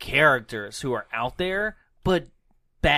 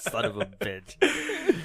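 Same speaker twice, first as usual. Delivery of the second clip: hammy movie line; 4 semitones higher, much slower than usual. Pretend. Continuing movie impressions.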